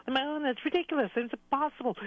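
high, scoffing jeer of a crowd of crickets; lightly voiced sneering crickets; mocking crickets. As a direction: laugh the dreamer off, high and dismissive. Other crickets mocking the dreamer.

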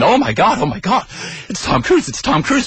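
imitated excited screaming. Date raves at Tom Cruise trailer, mock screaming. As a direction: squeal it like a starstruck fan, without full volume. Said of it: "starts screaming".

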